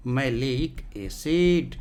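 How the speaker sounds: मैलिक एसिड stretched out slowly; slowly repeating मैलिक एसिड so students remember; slow drawn repeat. Shown as a demonstration. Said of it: "इसका भी नाम है मैलिक एसिड".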